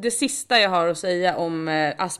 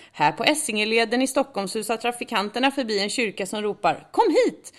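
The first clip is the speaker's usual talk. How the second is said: mock church advert; 5 semitones higher, 5 dB louder than usual. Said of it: "hemsida så står det".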